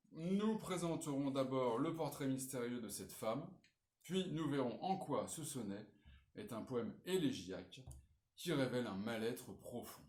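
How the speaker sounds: measured read-out of a model essay; reading aloud. Acted. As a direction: read the introduction out clearly for students. Reads model introduction aloud. (lecture à voix haute)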